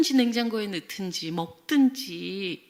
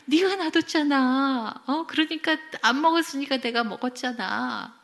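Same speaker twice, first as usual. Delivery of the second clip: raised, higher self-justifying voice; by-the-book parent; 5 semitones higher, 4 dB louder than usual. Retold or imitated. Mother justifies eating child's bread, insistent. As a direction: insist like a parent who is right. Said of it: "규범적으로 절대 틀린 말 안 하세요".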